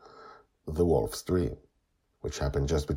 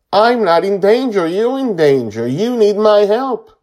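put-on very high, loud child's wail; crying; 15 dB louder than usual. A narrator's reading. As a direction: cry it out, desperate to be understood. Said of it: "he cries as he says".

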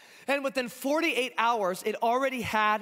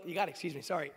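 hoarse, worn-out voice; hoarse from a weekend of shouting; 6 semitones lower, 7 dB quieter, much faster than usual. Real, not acted. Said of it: "this morning my voice is, is paying the price for that".

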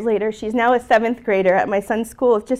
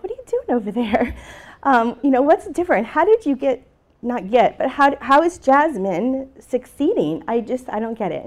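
lightly imitated puzzled colleagues, pitch rising; mock bafflement; 4 semitones higher than usual. Other teachers asking how Jasmine succeeds, mildly baffled. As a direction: press the questions as a mystified coworker would.

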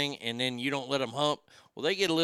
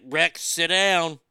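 stern owner command; 4 dB louder, much slower than usual. Retold or imitated. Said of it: "old boy was like".

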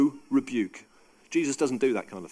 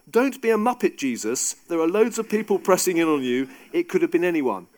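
brash, louder Peter telling Jesus off; cheeky Peter; 4 dB louder than usual. Acted. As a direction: play Peter as an exasperated mate, pushed up and loud. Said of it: "That's the Gus Rosier version".

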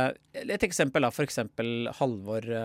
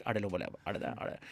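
anxious southern audience member; 4 dB quieter, much faster than usual. Retold or imitated. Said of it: "har mer sånn her".

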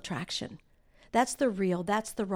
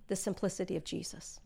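soft; 7 dB quieter than usual. Shown as a demonstration. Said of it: "Just the simplicity of Jesus".

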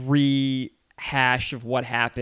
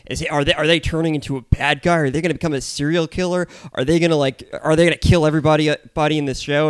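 lightly hammed-up speculation; raised, quickening string of mock questions; mock alarmed panelist; 3 semitones higher, 5 dB louder, faster than usual. Podcaster imitating recap guests fretting over an angry character, mock alarm. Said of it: "they're like".

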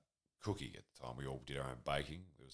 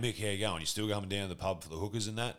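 higher, louder matey caller, lightly acted; phone caller; 5 semitones higher, 5 dB louder, faster than usual. Caller mistaking boy for his dad, lightly acted mateyness. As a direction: imitate a mate calling up for the pub. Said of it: "the person at the other end of the phone would be like".

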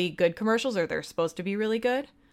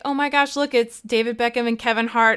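mock excited gushing; 3 semitones higher, 3 dB louder than usual. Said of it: "You're like".

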